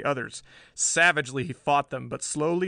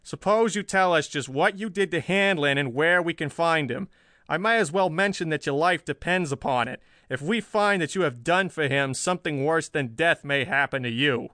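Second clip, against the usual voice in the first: raised, forceful chief's threat; menacing; 4 semitones higher, 4 dB louder than usual. A narrator's reading. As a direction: press the prisoner with a menacing warning. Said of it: "The tone was menacing".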